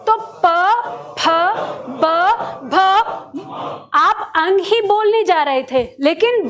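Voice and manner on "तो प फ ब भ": प फ ब भ said one by one with both lips pressed together; lip consonant demo. Shown as a demonstration. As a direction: sound out प फ ब भ with the lips closed, each separately. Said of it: "दोनों होठ आपस में लगा के करना है". (दोनों होठ मिलाकर प फ ब भ बोलकर दिखाना)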